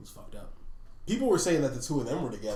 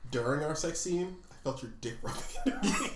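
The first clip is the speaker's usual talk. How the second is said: laughing through quote; 4 semitones higher than usual. Retold or imitated. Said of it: "He's like".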